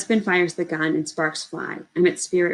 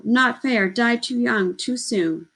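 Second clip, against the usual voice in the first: hollering; 5 semitones higher, slower than usual. Acted. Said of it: "The ghost boys scream, holler, echo".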